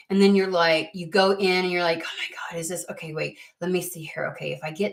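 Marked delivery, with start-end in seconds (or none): 2.0-4.9 soft, low, half-whispered counting; muttering calculation. Pretend. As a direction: mumble the sums to yourself. Counting money under breath.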